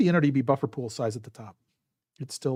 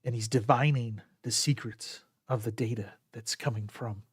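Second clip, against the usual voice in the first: golf commentator; 2 semitones lower, 7 dB quieter than usual. Acted. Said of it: "my golf voice".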